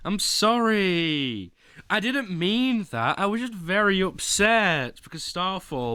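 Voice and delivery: high, pleading over-the-top sorry; mock apology. Streamer begs chat's pardon after an outburst, mock apology. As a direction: plead forgiveness, hamming it up.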